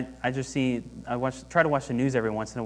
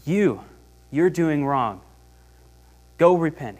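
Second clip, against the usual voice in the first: loud, raised accusing call; mock street preacher accusing; 2 semitones higher, 5 dB louder than usual. Servant who won't do this, mock accusing shout. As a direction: point the finger and shout it. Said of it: "go in the street and claim".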